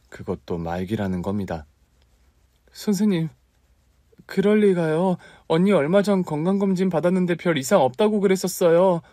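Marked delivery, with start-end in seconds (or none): 2.7-9.0 high, disbelieving protest; shocked disbelief. Acted. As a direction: refuse to believe the doctor. Shocked sister hears terminal diagnosis.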